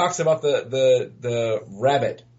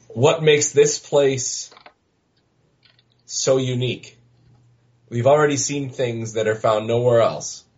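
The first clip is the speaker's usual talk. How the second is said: diplomatic voice. Acted. Vanessa questions the ravens about the town, diplomatic voice. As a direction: pause between phrases with careful tact. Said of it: "She's putting on her diplomatic voice".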